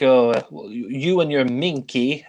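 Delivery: lightly imitated garbled French accent; Clouseau's French accent. Film fan quoting Clouseau to a beggar, mock French accent. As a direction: quote Clouseau in mock French, stressing the odd vowel. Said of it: "sort of garbled French accent".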